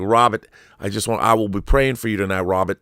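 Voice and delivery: amateur attempt at a Boston accent. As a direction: lightly mimic the Bostonian stranger. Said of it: "if that's a good Boston accent".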